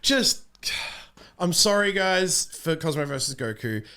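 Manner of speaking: loud, high, laughing mock complaint at his co-host; laughing mock scolding. Real, not acted. Scolding his co-host, laughing, for breaking camera immersion, loud and high. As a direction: tease him, laughing, for breaking the illusion.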